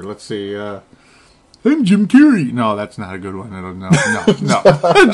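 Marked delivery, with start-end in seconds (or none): 1.7-2.5 higher, louder Jim Carrey bit; quick mock Jim Carrey; Jim Carrey impression. Host tries a Jim Carrey impression as a joke. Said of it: "best impersonation ever".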